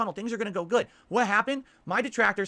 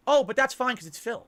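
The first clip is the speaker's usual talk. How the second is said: bitter mock quote; 4 semitones higher, 5 dB louder than usual. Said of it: "And it's like".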